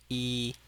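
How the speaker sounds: yi on a high, level tone; first tone. Shown as a demonstration. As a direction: hold "yi" high and flat. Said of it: "is the first tone".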